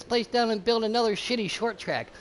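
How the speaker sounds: loud, high-pitched exasperation; exasperated rant. Real, not acted. Commentator ranting about the short track plan, loud exasperation. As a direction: blurt it out, loudly indignant.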